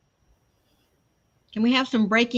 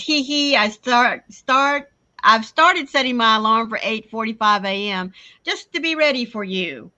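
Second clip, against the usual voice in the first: put-on little girl voice; 5 dB louder than usual. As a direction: read it like a sweet little kid. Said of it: "Little Carrie says".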